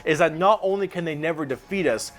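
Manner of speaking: measured, declamatory recital of a proclamation; dramatic quote reading. Acted. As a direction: read it aloud like a zealot's manifesto, lightly dramatised. Reads out a villainous faction quote.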